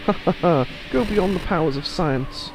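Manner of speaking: high theatrical villain voice; gloating mad scientist. Acted. Scientist exults over science's powers, high gloating voice, easing at the end.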